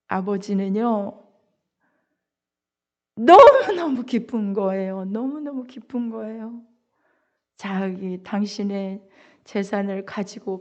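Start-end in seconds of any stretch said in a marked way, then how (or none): 3.2-5.0 너무너무 pressed out, louder, full of joy; preacher proclaiming the father's joy; emphatic joy. Acted. Preacher repeats line, then softly. 5.0-6.6 너무너무 said again much softer, almost hushed; preacher echoing the father's joy quietly; hushed repeat. Acted. Repeated line dropped soft.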